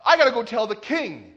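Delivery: hammed-up panicked yelling. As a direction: cry out the alarm like a storybook hen. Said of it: "he started yelling".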